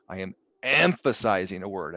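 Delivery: "emphasizing" leaned on at its first syllable; stress on emphasizing. Shown as a demonstration. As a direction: hit the start of "emphasizing" firmly. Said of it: "as I just did right there".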